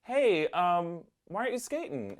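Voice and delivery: a hint of a friendly kid approaching shyly; stranger kid. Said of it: "this stranger kid rolls up".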